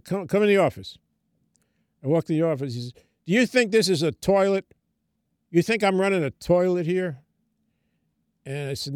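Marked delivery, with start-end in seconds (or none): 0.0-1.0 angry summons into the office; mad. Retold or imitated. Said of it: "and he's mad". 3.3-7.2 mock-angry, higher and a bit louder; angry boss. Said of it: "and he's mad".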